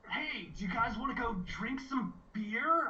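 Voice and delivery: overdone party-animal Gandhi; Gandhi impression. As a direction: lay the Gandhi voice on thick. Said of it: "I'm laying it on too hard".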